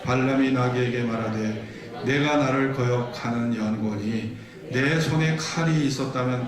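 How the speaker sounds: measured, even read-aloud cadence; scripture reading. Acted. Preacher reads donkey passage with congregation, measured scripture reading. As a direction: lead the congregation steadily through the verses.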